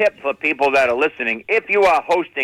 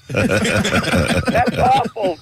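normal talking voice

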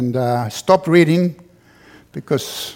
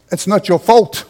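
mind's voice, louder; 4 semitones higher, 5 dB louder than usual. Retold or imitated. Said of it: "My mind says".

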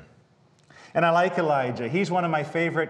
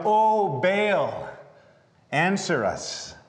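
mock cry out; 2 semitones higher, much slower than usual. Prophets of Baal begging their idol, mock crying out. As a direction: call out like a desperate worshipper. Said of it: "they cried out".

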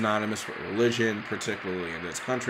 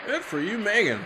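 swooping, singsong congratulations, higher the second time; high-pitched cheering; 8 semitones higher than usual. Real, not acted. Viewer congratulating Megan on screen, high singsong cheer. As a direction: cheer her on in a high, lilting voice.

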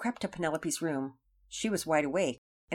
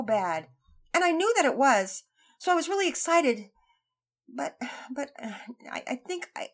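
put-on higher, halting boy's confession; young boy voice; 6 semitones higher than usual. A narrator's reading. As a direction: stammer it out as a sheepish kid. Voiced, hesitant confession.

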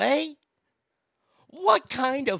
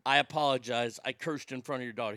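quiet apology; 10 semitones lower, 8 dB quieter, faster than usual. Retold or imitated. Apologizing to the father.

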